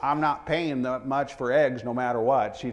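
woman's voice with put-on Texas accent. Quoting a lady met on a trip to Austin, Texas accent. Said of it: "That's my Texas accent".

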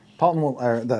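plain

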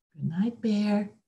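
soft, gently spoken voice. Narrator reading a story as Mouse calls good night to Bear, softly. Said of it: "Mouse called softly".

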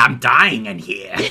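put-on cartoon parrot voice. Podcaster retelling a movie scene as the parrot pops out, Iago impression. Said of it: "again, a really good impression".

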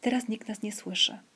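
ordinary delivery, nothing marked

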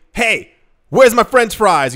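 loud, upset, angry voice. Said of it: "you get really upset with the woman".

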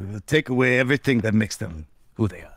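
clumsy, bad fake Russian accent. Comedy bit between two guys, one talking in a bad Russian accent. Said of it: "two guys doing bad Russian accents".

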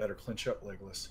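muttered under breath. Voicing a character who says a line to a companion: muttered under his breath. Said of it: "under his breath".

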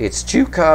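voice cracking and breaking mid-line. A tarot reader naming the center cards in a spread, voice cracking. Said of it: "My voice cracked".

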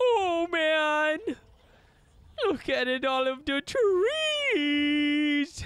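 very slow, high, silly dinosaur voice. Voicing a gigantic newcomer as he walks out, put-on character voice. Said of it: "I don't think I did that voice right".

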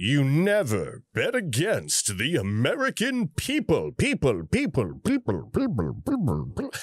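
forceful, carefully over-enunciated, emphatic words. Imitating a speaker whose voice got stronger: imitating forceful, enunciated voice. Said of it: "He's enunciating it".

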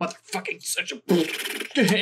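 strong Irish brogue. Speaker retelling a man who sits back and lets loose curses, irish brogue. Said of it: "the Irish brogue comes out as he just lets loose a string of curses".

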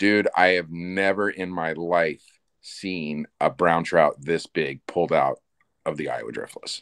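bone-dry, low, flat deadpan delivery. Retelling what a kid said while looking over at him, imitating a deadpan delivery.

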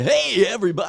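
very loud, very high morning radio DJ shout. Recalling a recording session, imitating a morning drive-time radio DJ. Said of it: "Like a AM morning drive time DJ".

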